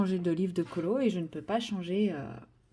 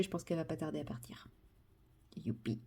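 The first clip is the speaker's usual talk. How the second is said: whispering; 4 semitones lower, 12 dB quieter than usual. Real, not acted. Aside not to disturb the cat.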